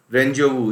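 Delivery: रेंजोवू said with a clear वू at the end; careful pronunciation. Shown as a demonstration. Teacher to students showing how to pronounce रेंजोवू. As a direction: end रेंजोवू on a clean वू sound. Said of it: "इसका उच्चारण भी सही कीजिएगा".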